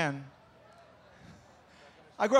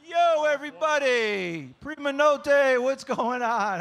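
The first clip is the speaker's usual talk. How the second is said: drawn-out greeting; 3 semitones higher, slower than usual. Real, not acted. Comic greeting crowd on arrival.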